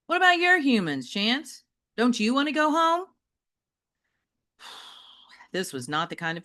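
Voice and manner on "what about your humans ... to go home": lightly raised call across the kennel. A narrator's reading. Metalhead calls out to Chance, asking about home. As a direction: call out the question, a touch higher. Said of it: "he called out".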